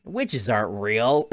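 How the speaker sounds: slow, mock-confident denial; mock dismissive. Mocking Luke ten minutes ago, dismissive. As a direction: imitate a boy brushing it off, drawn out. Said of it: "Luke, t-, ten minutes ago".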